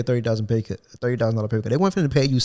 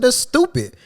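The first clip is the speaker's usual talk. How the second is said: retold insult; 12 semitones higher, 4 dB louder, slower than usual.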